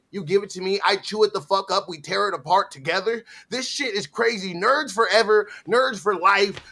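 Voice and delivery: usual speaking voice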